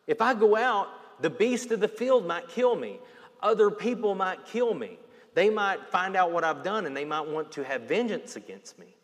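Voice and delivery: panicky Cain. Retold or imitated. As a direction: fret about being hunted down. Cain's fear voiced, louder.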